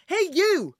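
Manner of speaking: high shouted call up the steps; yelling. A narrator's reading. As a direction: yell it up to him. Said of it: "he yelled up".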